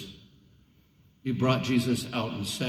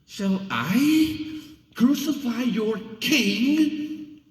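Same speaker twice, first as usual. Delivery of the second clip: high, slow challenge; taunting question; 12 semitones higher, 3 dB louder, much slower than usual. A narrator's reading. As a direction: dare the crowd to say it. Pilate challenges the crowd.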